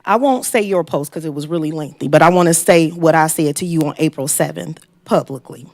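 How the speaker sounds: normal talking voice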